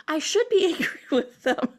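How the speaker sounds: amused mock indignation, breaking into laughs; imitated complaint through giggles; laughing imitation. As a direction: quote the client while laughing. Amused quoting a client's excuse.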